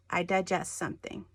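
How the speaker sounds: "digest" said as the verb, di-JEST; verb stress. Shown as a demonstration. Teacher giving a verb, something you do, "digest" stressed on second syllable. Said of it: "you know to say it digest".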